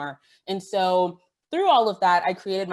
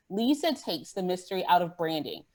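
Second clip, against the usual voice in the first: usual speaking voice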